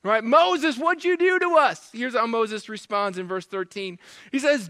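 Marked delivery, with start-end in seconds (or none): 0.2-1.9 high-pitched panicky protest; mock freak-out. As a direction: act out a people freaking out at their leader. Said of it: "they start freaking out".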